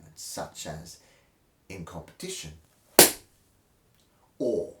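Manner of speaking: over-the-top theatrical reading of a dry textbook; mock-epic textbook recital with wild pitch swings; dramatic reading. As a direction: read it like a grand stage monologue, swelling and whispering. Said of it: "where I read a random page dramatically from a textbook".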